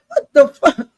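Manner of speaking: high shocked shriek with a cry in it. Retold or imitated. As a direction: shriek it in disbelief at the gun. Claire finds a gun.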